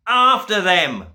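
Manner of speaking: loud, high command; screaming order. A narrator's reading. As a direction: scream at the servants to chase. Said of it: "the Duke screamed".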